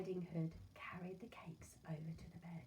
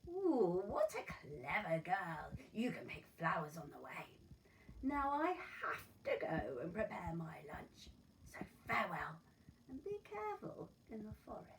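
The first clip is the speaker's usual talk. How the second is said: smooth wolf; 4 dB louder than usual. Acted. Wolf flatters and leaves.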